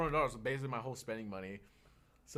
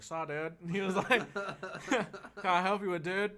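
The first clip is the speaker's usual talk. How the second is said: Cali dude; 7 semitones higher, 4 dB louder than usual. Retold or imitated. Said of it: "like, a Cali dude".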